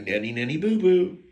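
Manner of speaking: singsong nanny nanny boo boo; childish taunt. Acted. Bragging to the listener about his price, mock childish taunt. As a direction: tease like a schoolkid, rising on boo boo.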